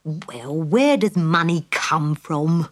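slow, impatient pig; mildly impatient pig voice. Acted. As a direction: sigh it out like the answer is obvious. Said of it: "Taiwan said impatiently".

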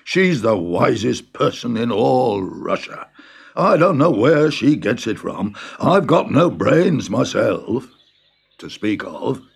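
lightly voiced farmer, proud and humble; old farmer. The farmer boasts to the Tsar about his daughter. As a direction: boast of the girl like a modest old peasant.

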